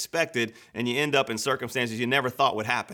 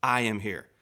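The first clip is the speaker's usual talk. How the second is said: reassuring; slower than usual. Acted. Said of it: "one of the best phrases in the Bible".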